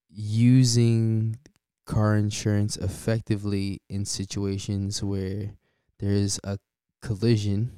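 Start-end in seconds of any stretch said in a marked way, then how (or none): 6.0-7.7 collision stressed with a rise; emphasis on collision. Shown as a demonstration. Host stressing a key word to listeners, emphasis on collision. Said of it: "I emphasize that word".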